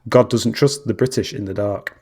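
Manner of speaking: God doesn't trust the British in the dark, said again slowly. Shown as a demonstration. Repeating the joke punchline for a confused friend. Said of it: "I don't know what that means".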